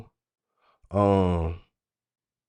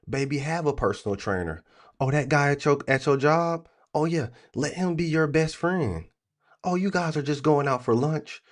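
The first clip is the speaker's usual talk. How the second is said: higher, sing-song mock of a man swearing he's not insecure; lightly voiced clueless boyfriend, higher, talking himself into it; 5 semitones higher than usual. Streamer mocks a chat viewer as a naive boyfriend, in a higher, sing-song mock voice. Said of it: "It's niggas like you who it happened to".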